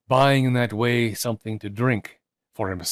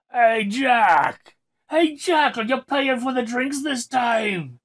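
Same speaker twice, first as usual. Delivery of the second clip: shouting friends; 14 semitones higher, much slower than usual. A narrator's reading. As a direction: hail him across the street, rowdy. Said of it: "shouted some of his drinking companions".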